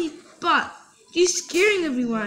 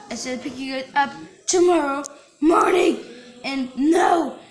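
angry shouting. Acted. Angry parent yelling on phone.

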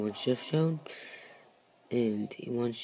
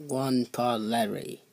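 muffled as if through a wall. Acted. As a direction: speak from behind a closed door. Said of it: "Your voice is, like, super muffled".

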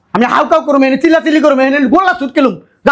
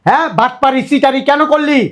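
heated, raised-pitch accusing rant; angry accusation; 3 semitones higher than usual. Acted. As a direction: confront them indignantly over the deception. Angry confrontation over deception. (রাগী গলায় অভিযোগ)

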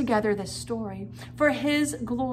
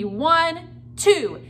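put-on loud, slow count for kids; counting aloud; 5 semitones higher, 4 dB louder than usual. Shown as a demonstration. Kids' teacher counting along loudly. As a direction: count it out for the children to join. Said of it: "Count with me".

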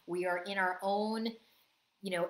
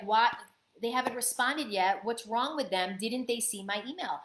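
indignant; 2 semitones higher than usual. Retold or imitated. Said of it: "We don't want to be like".

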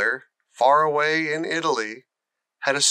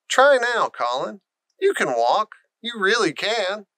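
urging; 7 semitones higher than usual. Acted. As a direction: push him on eagerly. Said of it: "urged Mary".

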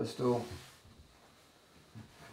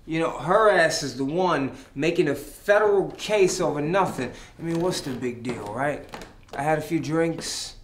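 angry; 5 dB louder than usual. Acted. Drunk man argues with friend.

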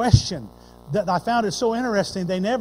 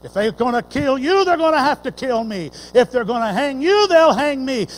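passionate plea; 3 semitones higher, 7 dB louder than usual. Retold or imitated. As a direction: pledge to die with him. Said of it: "Peter had that passionate plea".

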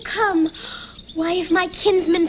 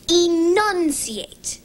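slow careful enunciation; 2 semitones higher, much slower than usual. Shown as a demonstration. Child showing the word mom wants, over-enunciated. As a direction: stretch out enunciate syllable by syllable. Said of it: "Enunciate means to speak clearly".

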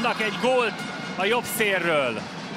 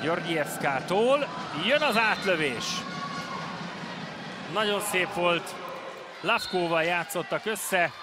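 excited commentary; 3 semitones higher, slower than usual. Acted. Excited goal call.

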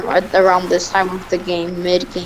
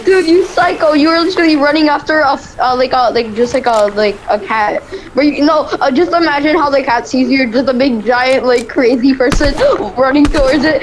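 excited; 5 semitones higher than usual. Real, not acted. Teasing friend, laughing excitedly.

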